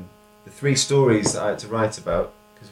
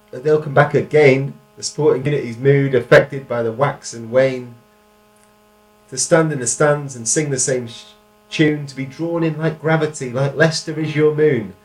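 poem recital; 4 semitones higher, 7 dB louder than usual. Shown as a demonstration. Reads own poem aloud.

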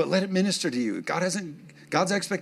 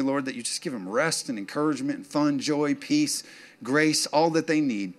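prayer. Acted. Closing prayer.

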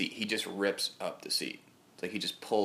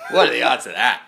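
higher and even louder, near a shout; louder mock outrage; 4 semitones higher, 12 dB louder than usual. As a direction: hammer the question home in disbelief. Slams his hand down.

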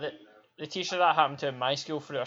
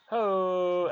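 higher-pitched mock wrestler's "Ho!"; sudden catchphrase call; 4 semitones higher than usual. Host recalls the shout heard while zoning out, mock catchphrase call. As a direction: imitate a wrestler's sudden holler, without much volume. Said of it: "then just suddenly you hear".

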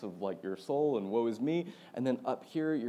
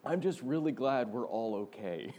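quote through laughter. Retold or imitated. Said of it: "and I quote".

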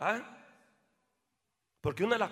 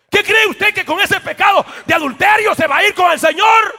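much higher, louder shouted rebuke; preaching at full force; 11 semitones higher, 16 dB louder than usual. Acted. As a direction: bellow the accusation at them. Pastor confronts adultery. (reproche a gritos desde el púlpito)

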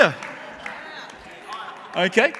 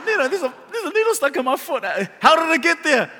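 questioning grandmother; 6 semitones higher than usual. Retold or imitated. Grandmother questioning hurt boy.

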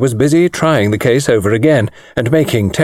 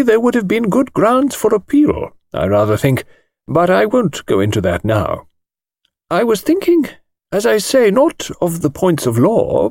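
thin precise voice; 7 semitones higher than usual. A narrator's reading. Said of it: "thin, precise little voice".

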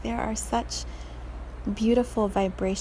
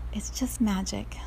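whispered; 6 dB quieter than usual. Real, not acted. Whispered reflection after story.

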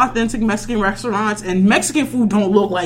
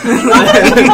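put-on loud valley girl chirp; bubbly high teen girl; white girl voice; 4 semitones higher, 8 dB louder than usual. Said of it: "like two white girls".

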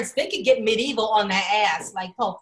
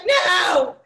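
put-on higher, louder child's no; mock shout; 7 semitones higher, 6 dB louder than usual. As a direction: shout no like a scared kid. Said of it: "I was like".

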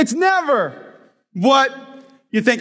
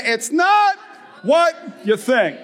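congregation call; 3 semitones higher, slower than usual. Shown as a demonstration. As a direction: lead them, punch not. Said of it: "say it this morning with me".

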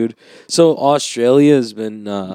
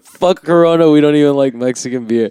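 louder Australian bloke, punching Corona; Australian accent; 4 semitones higher, 4 dB louder than usual. Retold or imitated. Retelling friend's line, louder mock Australian accent. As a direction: repeat the Aussie boast louder, laughing at it. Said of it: "channel my inner".

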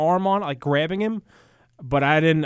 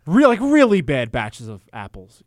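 raised voice, aimed at mom; louder complaint; 6 dB louder than usual. Real, not acted. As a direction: complain loudly across the room.

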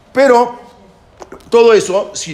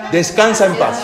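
mock solemn; 6 semitones higher, 4 dB louder than usual. Shown as a demonstration. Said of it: "¿Qué le estoy diciendo?".

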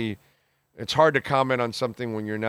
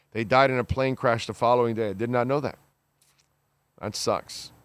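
ordinary talk

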